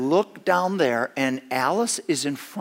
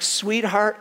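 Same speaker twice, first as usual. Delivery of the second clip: sugary, raised "sweetheart" with a rising lilt; honeyed pet-name coaxing; sweetest voice; 6 semitones higher than usual. Retold or imitated. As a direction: coax sweetly, pitched up. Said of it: "and it is my sweetest voice".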